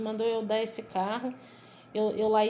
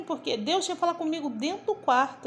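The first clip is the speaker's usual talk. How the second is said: ordinary talk, nothing marked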